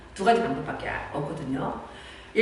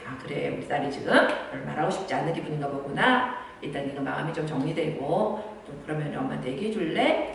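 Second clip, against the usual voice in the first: softer, lower, patient reassurance to a daughter; gentle mother; 4 semitones lower, 5 dB quieter than usual. Shown as a demonstration. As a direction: back off kindly and calmly. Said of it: "그래서 그럴 때는". (부드럽게 달래는 엄마)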